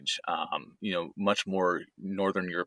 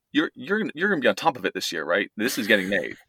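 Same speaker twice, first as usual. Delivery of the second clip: lightly mock-pestering, pitched up at the start; retold nagging; 2 semitones higher than usual. Son-in-law reminding his wife's mom about the Rumtopf, playfully nagging.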